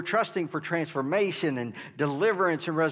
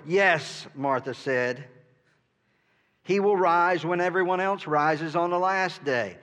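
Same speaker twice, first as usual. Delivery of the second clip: louder, weary exasperated reply; exhausted, exasperated; 3 semitones higher, 5 dB louder than usual. Acted. Martha answering Jesus, tired and exasperated. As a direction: sound worn out and fed up. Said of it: "I don't know if you could hear it in her voice, the exhaustion".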